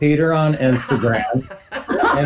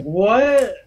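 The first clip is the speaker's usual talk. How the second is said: mock baffled teen; 10 semitones higher, much slower than usual. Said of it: "And you're like".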